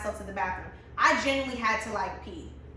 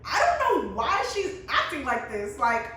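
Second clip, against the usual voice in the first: laughing imitation of friend; 4 semitones higher, 4 dB louder than usual. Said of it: "Jalen was just like".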